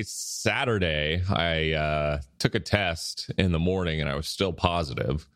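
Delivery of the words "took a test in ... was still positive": nasal voice. Real, not acted. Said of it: "I sound very nasally right now".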